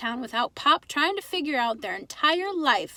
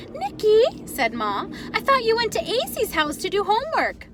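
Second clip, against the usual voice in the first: put-on higher, accented mother caught off guard; surprised Ma; 10 semitones higher, 5 dB louder than usual. Mother surprised her son is home, questioning.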